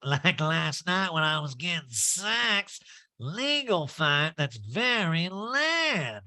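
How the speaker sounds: slow, high nasal impression; mock-defiant, stretched-out high voice; Erica Jane. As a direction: drawl it in a pinched put-on voice. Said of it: "that Erica Jane imitation".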